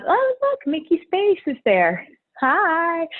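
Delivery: delighted greeting. Real, not acted. Spots a friend on screen.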